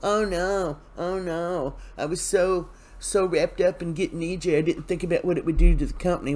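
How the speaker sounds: put-on "oh no" dismay; mock freak-out. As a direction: retell a dismayed fretting, lightly acted. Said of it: "And she's freaking out".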